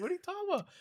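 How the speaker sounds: high-pitched, baffled protest; acting out exasperated disbelief; incredulous. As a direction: push back with the voice way up. Acted challenge to mom.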